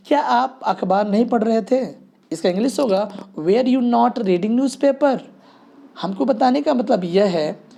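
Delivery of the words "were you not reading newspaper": "Were you not reading newspaper?" word by word, slowly. Shown as a demonstration. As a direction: dictate the sentence slowly. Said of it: "were और not इधर". (धीरे धीरे पढ़ा गया वाक्य)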